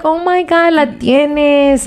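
high, delighted squeal of surprise; excited gasp. Retold or imitated. Friend sends an old photo, delighted high reaction. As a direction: gush over the photo in a high voice.

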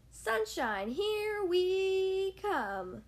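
squawking. Acted. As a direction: squawk it out at takeoff. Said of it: "he squawked".

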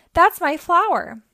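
high, loud protest; urgent call. A narrator's reading. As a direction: call out to claim it. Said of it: "he called".

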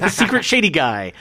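laughing through the words; cracking up while repeating it. Real, not acted.

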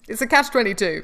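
normal talking voice

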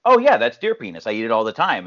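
casual. Retold or imitated. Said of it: "it'd be much better if it was like".

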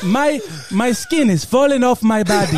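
put-on comic African accent; cheerfully suffering, in a put-on African accent. Sick villager describing his skin, African accent. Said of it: "got to do that accent".

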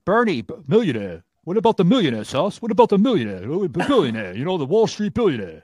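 teasing impression of a stump speech; mock Bernie rant. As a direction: lampoon the slogan, half joking. Host mocks Bernie's slogan.

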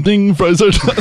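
laughing through the repeated line; laughing fast food line. Retold or imitated. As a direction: giggle out the fries joke.

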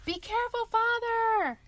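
high, loud shout from inside. Acted. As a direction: call out in alarm. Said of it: "Tom shouted".

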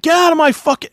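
retold officer's snap. Colonel yelling at the private.

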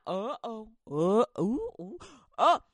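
flailing in comic alarm; panicked yelps. Acted. Continued naked panic.

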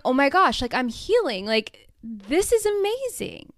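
light up at good news; gushing with mock delight to yourself; thrilled realization. Retold delight at healing.

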